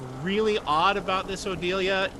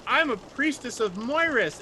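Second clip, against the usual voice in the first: priestess mimic; 8 semitones higher than usual. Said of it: "you're like".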